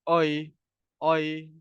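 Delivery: oi with only the tongue moving, lips slack; wrong lazy oi. Shown as a demonstration. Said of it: "jangan nak gerakkan lidah je".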